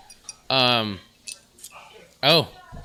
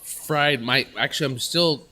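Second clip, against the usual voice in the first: mouth on fire. Real, not acted. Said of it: "My mouth is still on fire".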